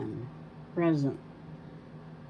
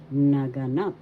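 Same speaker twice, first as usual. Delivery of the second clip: naganap with the accent on the final NAP; stress on third syllable; 2 semitones lower, 4 dB louder than usual. Shown as a demonstration. Teacher showing learners the accent, naganap stressed on last NAP. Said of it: "The third syllable has the accent".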